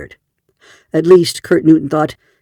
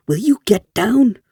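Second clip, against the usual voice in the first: furious; 7 semitones higher than usual. A narrator's reading. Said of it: "Lee Sharn said furiously".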